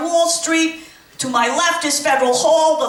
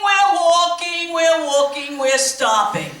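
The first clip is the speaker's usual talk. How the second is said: tour guide call; 3 semitones higher than usual. Acted. Tour guide leading walking group.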